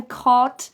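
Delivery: "caught" with an open back vowel; vowel far back in "caught"; pija vowel. Shown as a demonstration. Teacher recalling the word's meaning, "caught" with back vowel. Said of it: "muy abierta y muy trasera".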